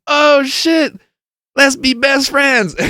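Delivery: very high, gushing imitation; mock excitement. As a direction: squeal it as instant best friends. Acting new friends' excitement.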